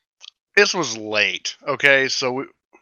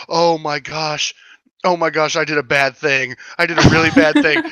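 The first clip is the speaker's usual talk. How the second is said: mock panic, raised pitch; imitated freaking out; 4 semitones higher, 3 dB louder than usual. Friend imitating the shooter who did a bad thing, mock freaking out. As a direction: imitate a rattled confession, building in urgency. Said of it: "she started freaking out".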